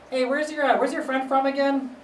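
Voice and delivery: high-pitched grandma voice; imitated grandmother. Grandmother asking where the friend is from, high imitated voice. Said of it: "she was like".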